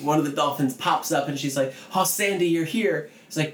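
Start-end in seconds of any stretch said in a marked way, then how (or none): 1.9-3.1 excited. Retold or imitated. Kay greeting dolphin.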